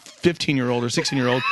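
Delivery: usual speaking voice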